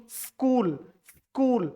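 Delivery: स्कूल said "skool" with no leading vowel; teacher's clean "skool"; correct pronunciation. Shown as a demonstration. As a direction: start straight on the s cluster. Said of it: "स्कूल नहीं".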